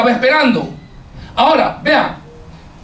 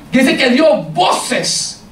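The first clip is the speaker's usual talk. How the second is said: slowed emphasis; slower than usual. Acted. Preacher repeating for emphasis.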